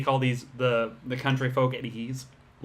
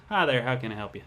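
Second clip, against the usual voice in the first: a little country twang, unforced; slight country accent. Shown as a demonstration. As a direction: greet a customer with a light country twang. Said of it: "I unintentionally do a country accent".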